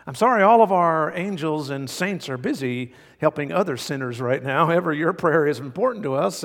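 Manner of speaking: automated phone menu recording. Pretend. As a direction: read it like a cheery hold message. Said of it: "Imagine praying and hearing the following".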